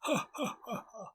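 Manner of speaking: high mocking ha ha, fading out; mock parental laugh. Parents in the back mock-laughing at them. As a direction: cackle at us like gloating parents. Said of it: "are in the back going".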